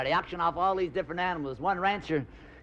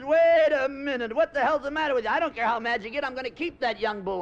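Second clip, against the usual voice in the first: angry farmer; 6 semitones higher, 4 dB louder than usual. Acted. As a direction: scold the mad bull. Farmer yells at bull.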